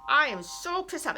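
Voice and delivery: high, loud burst of mock anger; acted anger. Acts out recognizing one's anger.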